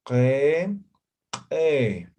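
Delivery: ke with a sharp glottal pop on the k; explosive glottal ke. Shown as a demonstration. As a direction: burst out ke from the throat. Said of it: "lo hagamos de forma explosiva".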